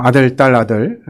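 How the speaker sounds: ordinary delivery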